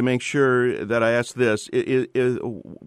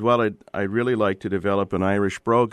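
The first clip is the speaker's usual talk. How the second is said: put-on Northern Irish accent. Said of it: "you've actually done a pretty good imitation of a Northern Irish accent".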